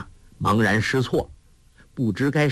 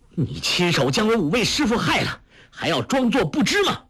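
high, grief-stricken cry of accusation; anguished accusation; 11 semitones higher than usual. A narrator's reading. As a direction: hurl it at him through rising anguish. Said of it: "叫道". (悲愤高声质问)

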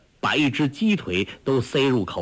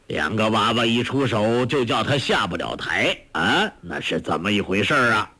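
lightly voiced old master, lower pitch; amused old beggar master; 3 semitones lower than usual. Old master asks two youngsters about their kung fu, lightly amused elder.

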